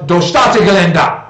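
"Do Staatsgelände" said slowly with flat American vowels; "Do Staatsgelände" in a heavy, clumsy American accent; butchered German. Shown as a demonstration. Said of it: "butchered it with a terrible American accent".

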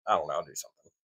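stuffed-up nose, sinuses blocked. Real, not acted. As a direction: talk through a blocked nose. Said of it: "sounds like somebody's holding my nose".

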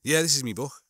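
lightly demonstrated Scouse accent; casual Scouse chat. Shown as a demonstration. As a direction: say it as a Liverpudlian would. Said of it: "you get some Scouse to go".

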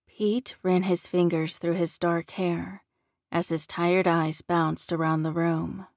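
usual speaking voice

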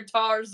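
"tars", toes with R in place of O; mock Aussie "tars" for toes. Shown as a demonstration. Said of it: "you tack on an R".

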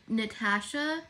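NATASHA with a short flat A as in cat; American "Natasha"; American-style Natasha. Real, not acted. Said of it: "I know I say Natasha".

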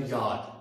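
German J said as "याद", with a y sound; German letter name. Shown as a demonstration. Teacher naming the letter J for learners, German pronunciation "याद". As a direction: say "याद" starting with y, not English j. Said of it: "ये German language होगा याद".

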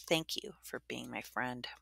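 soft slow whisper; whispered thanks. Acted. Girl silently thanking Davis, soft whisper. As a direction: whisper it to a friend far off.

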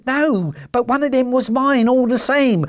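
high, pleading whine; whining. Acted. Little man pleading with the salesman, whining. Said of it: "whined the little man".

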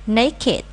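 put-on "naked" as NAY-kid; two-syllable naked. Shown as a demonstration. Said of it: "Nhớ cái từ này là naked".

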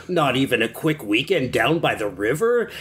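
lightly voiced campy character read; Desmond Doomsday voice. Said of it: "I should read this like Desmond Doomsday".

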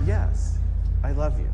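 Peter, stung, insisting he loves Jesus; indignant Peter. Retold or imitated. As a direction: bristle back at the repeated question. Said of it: "Peter starts to get a little indignant".

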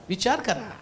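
normal talking voice

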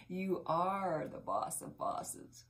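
slow, soft empowering declaration; slow affirmation. Real, not acted. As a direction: speak it slowly like a blessing.

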